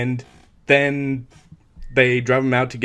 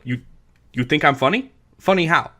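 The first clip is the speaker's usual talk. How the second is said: menacing mock gangster, slightly higher; Joe Pesci's Tommy; 3 semitones higher, 3 dB louder than usual. Friend quotes Tommy's funny-how scene, mock menace. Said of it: "he's just doing the whole".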